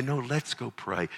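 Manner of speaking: put-on gently include the child; acted kindly dad suggestion; inviting father. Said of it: "You say".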